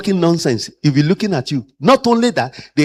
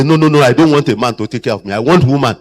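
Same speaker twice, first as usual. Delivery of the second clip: put-on elderly patient refusing; 4 dB louder, faster than usual. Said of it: "I've seen some say".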